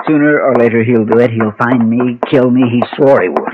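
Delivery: frightened, voice climbing; scared man blurting his fear; fearful outburst. Acted. Frightened man pleading for help.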